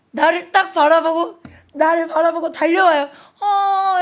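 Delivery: high, loud breathless excitement; excited rush. Retold or imitated. Little one spotting the teacher, high and excited. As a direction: burst with relief at seeing teacher.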